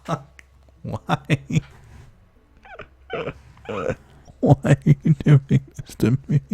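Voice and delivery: loud high wail at the game; anguished yell. Real, not acted. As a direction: cry out why me. Yelling at the game.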